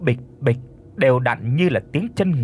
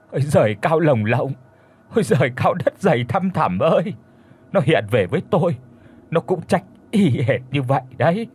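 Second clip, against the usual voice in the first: grieving wail. Acted. Grieving wife wailing for dead son.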